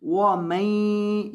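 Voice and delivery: वमन very slow with the नून hummed; nasal ghunna. Shown as a demonstration. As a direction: hum out the न of वमन. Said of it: "यहाँ आपने गुन्ना करना है". (वमन में गुन्ना)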